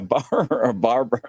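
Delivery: breaking into a laugh on the word; can't get barber out without laughing; laughing through it. Real, not acted. Host describing a clip, laughing as he says barber. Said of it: "I can't even say it without laughing".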